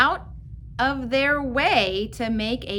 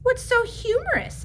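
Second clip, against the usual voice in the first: teacher's voice; 13 semitones higher, 3 dB louder than usual. Acted. Teacher asks class.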